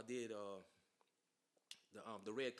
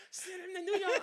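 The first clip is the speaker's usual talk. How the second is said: excited calling out; 12 dB louder than usual. Retold or imitated. Laughing audience calling out about the performer, excited mock shout.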